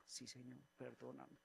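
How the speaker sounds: softly asking the Lord's forgiveness; man quietly apologizing to God in prayer; quiet repentance. Retold or imitated. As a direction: drop to a hushed, humble plea. Repentant reply to the Lord.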